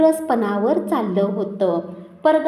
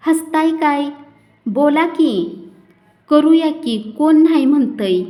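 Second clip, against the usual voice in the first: louder, higher, indignant retort; 5 semitones higher, 5 dB louder than usual. A narrator's reading. Blind Shirpa snaps at villagers laughing at his wedding, loud. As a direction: throw it back at the laughing crowd.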